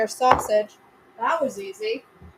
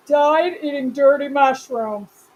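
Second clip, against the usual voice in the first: slow, louder grand pronouncement; hammed-up solemn epitaph; mock epitaph; 6 dB louder, slower than usual. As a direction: announce it like a tombstone. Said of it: "That's what I want on my obituary".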